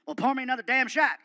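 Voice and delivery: loud, barking tough-guy voice; gruff Stone Cold voice. Retold or imitated. Wrestler calls to Fluffy from his door, loud gruff bark. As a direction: play the brash wrestler calling out.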